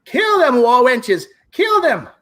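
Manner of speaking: high shouted battle orders; villain scream. Acted. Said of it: "he screams".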